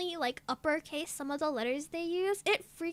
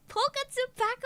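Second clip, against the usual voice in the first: hype slogan; 3 semitones higher, 4 dB louder, faster than usual. Shown as a demonstration. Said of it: "Can we get that on a shirt".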